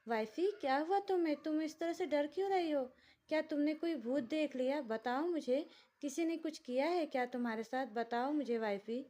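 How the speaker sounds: a simple-hearted man fretting over his crying wife; childlike worried husband. A narrator's reading. Lakshya asks his crying wife what happened, childlike and worried.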